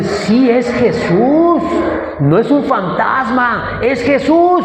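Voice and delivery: high, drawn-out joyful cry; excited recognition. Acted. Disciple seeing Jesus come over the water, excited recognition. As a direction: act out Peter realizing who is coming.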